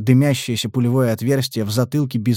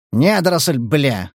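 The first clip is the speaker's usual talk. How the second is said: mild snort; slower than usual. Acted. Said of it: "фыркнул командир".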